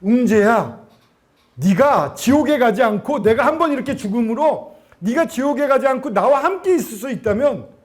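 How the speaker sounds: high, impassioned voice of loving appeal; Jesus. Retold or imitated. Jesus to the believer about dying for him, earnest high-pitched appeal. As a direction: speak earnestly to a beloved child. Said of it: "귓가에서 말씀해 주듯이 이렇게 말씀하신 것".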